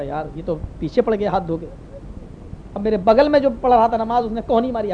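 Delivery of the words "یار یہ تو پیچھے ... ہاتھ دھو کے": low, soft muttering; worried aside. Retold or imitated. Worshipper to himself as imam persists, hushed low muttering. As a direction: grumble it under your breath.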